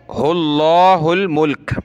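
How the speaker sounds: हुल्लाहुल मुल्क recited, stopping firmly on मुल्क; stop at मुल्क. Shown as a demonstration. Teacher demonstrates the required stop, recited slowly. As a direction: end on a clean pause at मुल्क. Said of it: "वक़फ़ करेंगे".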